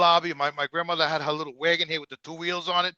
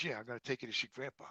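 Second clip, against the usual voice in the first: imitating cousin; 6 semitones lower, 15 dB quieter, faster than usual. Cousin voiced in the story.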